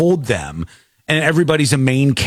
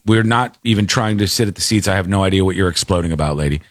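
calm; 7 semitones lower, faster than usual. Retold or imitated. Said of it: "very calmly was like".

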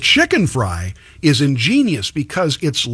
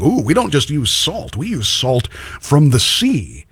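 mock marketing boast. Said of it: "that's their ploy. That's their thing".

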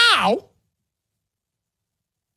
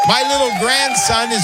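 emotional laughing announcement; 3 semitones higher than usual. Real, not acted. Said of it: "Sorry to get a little emotional".

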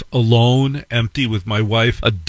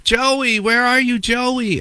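mock scream; 13 semitones higher, slower than usual.

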